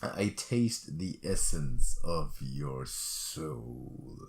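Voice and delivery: very slow, low eldritch murmur; vast deep cosmic voice. Pretend. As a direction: drawl it like an ancient horror. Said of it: "I'm trying to make the voice happen too".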